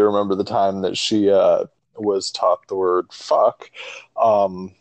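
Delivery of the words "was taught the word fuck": slowly, as if describing formal instruction; measured, deliberate telling; slow, deliberate phrasing. Real, not acted. Dad recalling his daughter learning a swear word, slow and deliberate. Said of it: "the way you said that".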